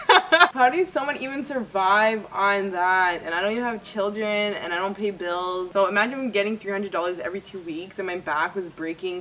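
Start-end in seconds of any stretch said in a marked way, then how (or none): 0.1-3.2 slow, laughing through the question; laughing disbelief. Real, not acted. Complaining to viewers about the pay, laughing. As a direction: laugh at how little it pays.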